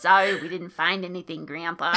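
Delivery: put-on old man voice.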